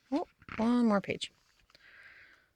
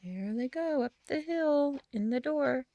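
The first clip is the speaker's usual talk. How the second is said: hushed aside; 6 semitones higher, 5 dB quieter than usual. A narrator's reading.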